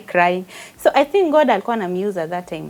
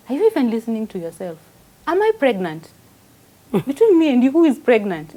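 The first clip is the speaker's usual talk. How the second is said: husband's scorn; 3 semitones higher, 5 dB louder than usual. Retold or imitated. Husband mocking clinic request.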